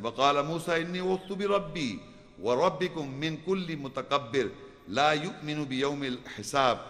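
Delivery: fast chanted Arabic verse; Quran recitation. Acted. Preacher reciting Moses' verse for the congregation, chanted. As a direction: recite the ayah in a flowing chant.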